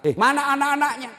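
high, loud retold demand; indignant question. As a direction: burst out asking, indignantly. Preacher retells his indignant question.

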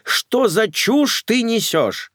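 mock the nonsense; scoffing man. Stepfather scoffs at the mother's talk, scornful.

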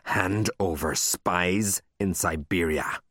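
slow, stern demand. Acted. Librarian demanding the taken book back, stern. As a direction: drag each word out with authority. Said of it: "she said sternly".

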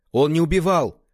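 громко и горячо, на высоком голосе; резко возразить, почти выкрикнуть; восклицание. A narrator's reading. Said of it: "воскликнул Ван Цин". (Ван Цин горячо возражает брату, громкое восклицание)

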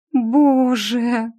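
high, strained groan of shame. Acted. Heroine groans in embarrassment, high groan. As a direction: groan it out, mortified. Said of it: "застонала я".

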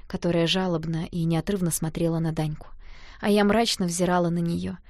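ordinary delivery

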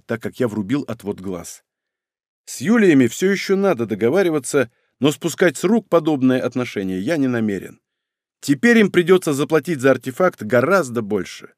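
ordinary delivery, nothing marked

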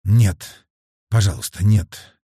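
restrained cry out of a bad dream; pleading cry. A narrator's reading. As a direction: plead with a touch of a scream. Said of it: "зебра закричала". (сдержанный умоляющий вскрик)

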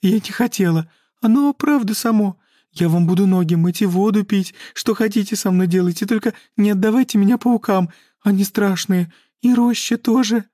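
high, loud sobbing begging; howling, pleading mermaid; wailing plea. Acted. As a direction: beg on her knees in tears. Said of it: "С рёвом рухнула на коленки".

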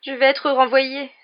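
high, loud, slow wail; lamenting Ginny. A narrator's reading. Ginny laments to Harry her expected expulsion, wailing. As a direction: lament it in distress. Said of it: "se lamenta Ginny".

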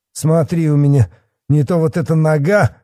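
high, loud bullying threat. A narrator's reading. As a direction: threaten him with rising outrage. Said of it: "повысил голос Бахметьев".

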